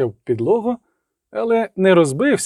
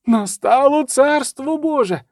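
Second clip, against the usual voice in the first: high, slow exalted cry; proclaiming; 9 semitones higher than usual. A narrator's reading. Monk proclaiming a miracle to his brothers, exalted. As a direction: announce it in religious rapture.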